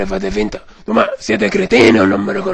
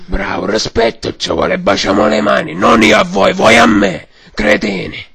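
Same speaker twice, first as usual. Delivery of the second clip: hoarse mock mafia boss; Godfather voice; 4 dB louder than usual. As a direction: demand respect like a don. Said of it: "signor Padrino".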